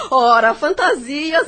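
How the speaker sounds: dito rindo, mais forte e devagar. Acted. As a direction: descarta a ideia entre risos. Ri das suspeitas. (Ana desdenha rindo das suspeitas da amiga)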